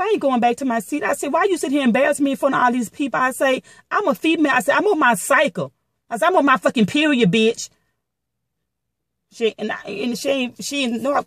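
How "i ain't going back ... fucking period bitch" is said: higher-pitched mock indignation, retold; indignant retort. Telling viewers how she refused to go back to her seat, indignant retort. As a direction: retell your defiant comeback, pitched up.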